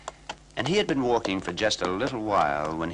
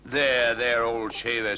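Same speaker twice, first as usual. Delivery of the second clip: comforting; 4 dB louder than usual. Acted. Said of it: "said the donkey".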